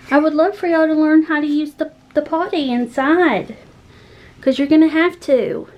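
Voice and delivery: winded after the workout; out of breath. Real, not acted. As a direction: talk while still catching your breath. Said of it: "I know, I'm out of breath".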